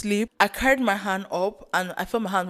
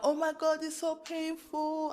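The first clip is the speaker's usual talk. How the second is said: pained whine; 8 semitones higher, 9 dB quieter than usual. Retold or imitated. Patient to the man injecting contrast, imitated pained whine. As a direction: re-enact the pain in a small, high whimper. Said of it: "it's so fucking painful".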